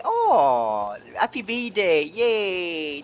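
high, loud burst of joy; excited shout. Real, not acted. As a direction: shout it out in delight. Reads birthday message in game.

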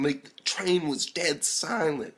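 slow, whispered aside; hushed narration. Real, not acted. Describing silent train.

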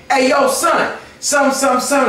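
hamming up a New York street guy; mock New York street accent. Host mocks New York guys to guest, New York accent. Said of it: "do people walk up to you like".

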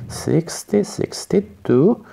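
normal talking voice

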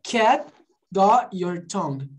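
slow "cat got your tongue" with the T of got dropped; unreleased T's, slowly demonstrated; silent T. Shown as a demonstration. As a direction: swallow the final T in "cat" and "got". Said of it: "eu não falei?".

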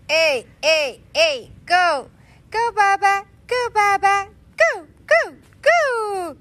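loud, high cheering; excited cheering. Real, not acted. Mom cheering baby Milan on to crawl, loud and high. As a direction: shout encouragement like a fan in the stands.

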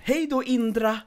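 high, sing-song teacher farewell; cheery teacher goodbye. Retold or imitated. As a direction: mimic a chirpy preschool teacher saying bye. Teacher voiced in retold story.

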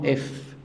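"اف" as a drawn-out f; slow, isolated "اف"; French letter sound. Shown as a demonstration. Teacher joins two letters into one sound, French pronunciation. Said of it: "انا بنطقهم".

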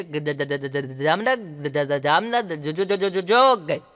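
a stammerer telling a traveller the train has gone; stammering. Retold or imitated. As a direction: stutter on and on until it's too late. Stammerer answering train question.

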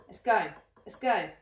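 loud, fired-up cheer; shouting. Real, not acted. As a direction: pump yourself up loudly. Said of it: "I don't know why I'm shouting".

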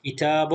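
كتاب ending in -bun; damm tanween. Shown as a demonstration. Teacher models the word for pupils, damm ending. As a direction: say كتاب with an added final "un". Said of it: "نقرأها الآن مع الضم".

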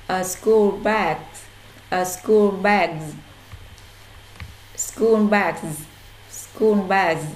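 "school bags" slow and loud with a z ending; drilled clearly. Shown as a demonstration. Teacher drilling the class, slow and loud. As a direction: stress "school", buzz the end of "bags". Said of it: "Đây là cách phát âm số".

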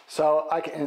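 usual speaking voice

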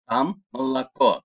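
"malako" ending on a clear stressed O, earlier vowels as A; stressed O, unstressed A. Shown as a demonstration. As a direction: reduce the first vowels of "malako" to A, stress the final O. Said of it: "Vurgulu O'yu O olarak okudum, diğerlerini A". ("malako": ilk heceler A, vurgulu son hece O)

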